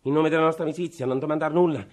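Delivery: anguished pleading cry; desperate plea. Acted. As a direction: beg him as a last hope.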